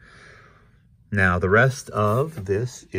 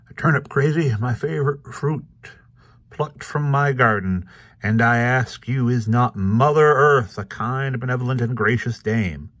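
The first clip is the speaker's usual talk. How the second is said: lightly voiced shaggy dog, higher and louder; 4 semitones higher, 4 dB louder than usual. A narrator's reading. Shaggy dog praises his turnip to Krazy, higher voice. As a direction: orate a little, pitched up, as a comic-strip dog.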